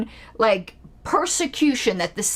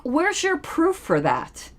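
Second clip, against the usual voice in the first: higher, slow demand for proof; challenging; 4 semitones higher, slower than usual. Real, not acted. Critic answering racism claims, challenging. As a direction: press the question slowly.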